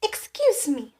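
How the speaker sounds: a tiny bird asking politely; whispered sparrow. Acted.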